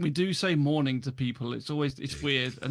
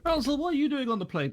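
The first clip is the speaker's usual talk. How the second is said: chatty American; 11 semitones higher than usual. Retold or imitated.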